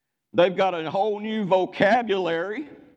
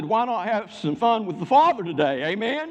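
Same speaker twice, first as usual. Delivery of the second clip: higher, punchier call for an amen; rousing repeat; 5 semitones higher than usual. Real, not acted. Preacher asking the congregation again for an amen, insistent and rousing. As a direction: rouse the room, lifting the pitch on the question. Repeats it to get louder response.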